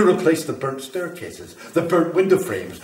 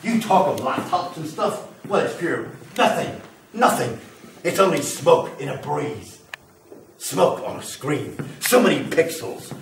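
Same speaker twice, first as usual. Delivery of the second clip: louder and higher, swelling with megalomania; grandiose ranting; 4 semitones higher, 7 dB louder than usual. Acted. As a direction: rant like a prophet of fire. Grandiose fire rant escalating.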